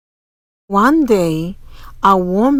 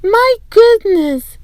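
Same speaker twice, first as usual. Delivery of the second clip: much higher, slow dismayed granny; old woman sees Camila's room, slow and high; tutting old woman; 12 semitones higher, 4 dB louder than usual. A narrator's reading. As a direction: draw it out with a tut. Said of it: "with a shake of her head".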